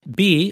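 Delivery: "be" set off alone with weight; a separate, pointed "be" after a beat; stress on BE. Real, not acted. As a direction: land firmly on "be". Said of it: "I emphasize the word be".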